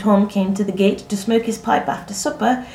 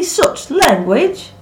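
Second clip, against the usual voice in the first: high, loud, slow reproof; scandalized, stretching the words out; sharp scolding; 7 semitones higher, 7 dB louder, much slower than usual. A narrator's reading. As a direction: scold with drawn-out indignation. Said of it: "Anne scolded sharply".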